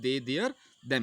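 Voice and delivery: each pronoun drawn out slowly; slow chanted list for students to memorise; slow recital. Shown as a demonstration. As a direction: space the words out like a memory drill. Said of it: "plural को कैसे याद रखना है?".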